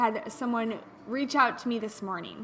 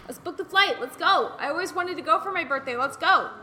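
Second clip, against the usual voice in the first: retold eager decision; 4 semitones higher, 4 dB louder than usual. Retold snap decision to travel.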